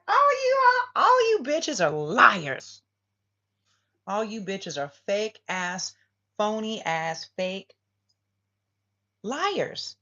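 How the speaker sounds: high, loud screeching rant; hammed-up emperor yelling at liars; furious tirade. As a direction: scream at the cheaters, slowly.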